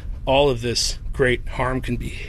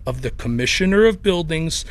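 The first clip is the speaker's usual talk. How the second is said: put-on Chicago accent. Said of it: "in his Chicago accent".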